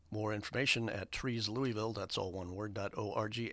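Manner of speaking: measured public service announcement; community radio ad read. Real, not acted.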